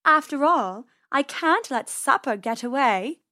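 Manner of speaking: smug purring cat; snooty bored cat. Acted. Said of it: "Persephone purred".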